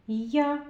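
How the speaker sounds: "Я" sounded out alone; sound demonstration. Shown as a demonstration. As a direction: model the sound "Я" as one clear syllable. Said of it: "Спробуйте вимовити цей звук".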